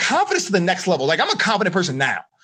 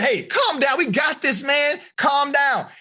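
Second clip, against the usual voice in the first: relaxed buddy voice; 5 semitones higher than usual. Retold or imitated. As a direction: talk him down like a chill pal. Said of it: "says Dawson".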